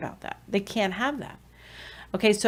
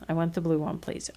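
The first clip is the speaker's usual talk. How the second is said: softer model; 2 semitones lower, 8 dB quieter, faster than usual. Shown as a demonstration. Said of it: "Say it like this".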